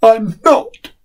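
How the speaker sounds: a small tired boy pretending not to be scared; little boy insisting. Frightened boy Peter in dark.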